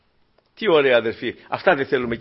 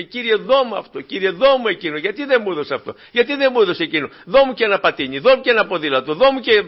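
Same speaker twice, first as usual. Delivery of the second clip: mock whiny begging; 5 semitones higher than usual. Mimics a greedy begging prayer.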